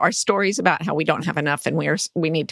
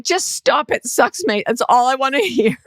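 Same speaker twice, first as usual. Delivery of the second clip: mock Australian; 5 semitones higher than usual. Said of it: "And she's like".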